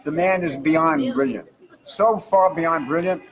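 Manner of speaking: drawn out, slow praise for the star; slow lavish praise. Real, not acted. Manager praises his star slowly, lavishly. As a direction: savour every word of it, slowly.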